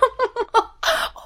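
very high-pitched witch's laugh; shrill witch laugh. A narrator's reading. Witch laughing at Aslan's request, shrilly. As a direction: laugh in a piercing squeal.

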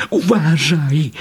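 high, drawn-out squeaky warning; warning little animal. A narrator's reading. Little animal warning mother in the boat, high drawn-out caution. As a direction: caution her in a high creature voice. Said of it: "upomniał ją zwierzaczek".

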